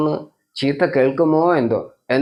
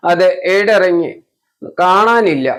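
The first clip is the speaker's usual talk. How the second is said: put-on insistent child; 5 semitones higher, 5 dB louder than usual.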